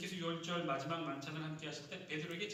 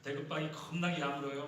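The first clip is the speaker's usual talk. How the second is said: punchy, louder Jeolla dialect; 5 dB louder than usual. Shown as a demonstration. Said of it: "그런 사람은 전라도예요". (전라도 사투리로)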